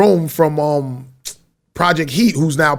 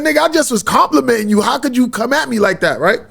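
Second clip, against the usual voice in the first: retold indignant reply; 5 semitones higher than usual. His own retort retold.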